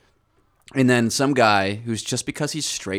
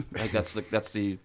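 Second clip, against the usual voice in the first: talking while chewing; mouth full; 5 dB quieter than usual. Real, not acted. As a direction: say it through a mouthful of crackers. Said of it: "Sorry, I'm eating goldfish right now".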